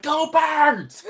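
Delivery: high, loud imitated cheer; fan cheer. Girl cheering at the deli guy, acted-out shout. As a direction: belt it like an Eagles fan.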